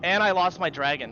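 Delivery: loud exasperation. Real, not acted. Gamer loses item, exasperated.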